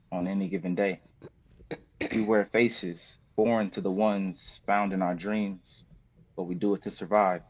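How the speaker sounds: measured spoken word delivery with long pauses; spoken word poem. Acted. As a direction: perform the poem deliberately, line by line. Reads his poem Judge Not.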